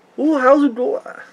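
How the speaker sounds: put-on old New York accent, pitched very high. Describing how a cartoon character talks: attempted Spooty old New York accent. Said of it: "I can't even do the accent".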